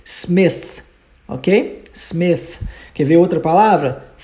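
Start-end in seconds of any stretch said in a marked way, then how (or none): 0.0-0.8 Smith ending with the tongue between the teeth, unvoiced TH. Shown as a demonstration. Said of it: "mordendo a sua língua". 1.9-2.6 Smith ending with the tongue between the teeth, unvoiced TH. Shown as a demonstration. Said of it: "mordendo a sua língua".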